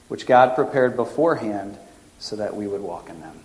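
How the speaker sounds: reading scripture aloud from the pulpit. Acted. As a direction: read it out firm and steady.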